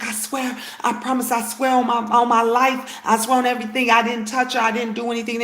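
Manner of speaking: imitated earnest, hurried protest; retold insistent swearing of innocence; pleading innocence. Accused man to the husband, imitated pleading denial.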